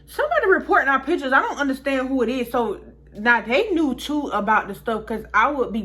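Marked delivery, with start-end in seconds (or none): 0.0-2.5 higher, louder and fast; worked-up sister. Retold or imitated. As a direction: rattle it off, indignant and baffled. Sister upset about reported pictures.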